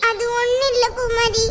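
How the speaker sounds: slow, choked-up words through tears; tearful, slow. Acted. Girl tells her friend Poomari she is leaving, slow and tearful. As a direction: hold back sobs as you answer. Girl crying over moving away.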